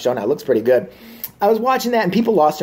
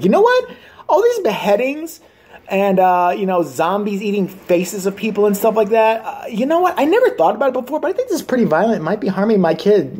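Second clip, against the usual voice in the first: higher, prissy dim-witted parent; mock parent; 3 semitones higher than usual. Mocking a television council parent realizing the show is violent, high and prissy. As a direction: play a clueless parent in a high voice.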